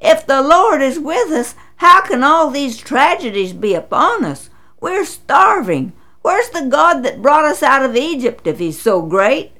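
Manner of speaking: a desperate man demanding answers; exclaiming. Acted. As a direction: protest in disbelief, voice lifted. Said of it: "He exclaimed".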